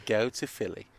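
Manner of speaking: soft, low Boston attempt sounding English; Boston accent slipping into English; botched Boston accent. Retelling to dad, in a Boston accent gone English. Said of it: "it's still an English accent".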